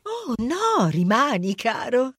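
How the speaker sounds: Hera lighting up, lightly voiced; suddenly sweet, a touch of delight; a hint of a goddess turning friendly; brightening up.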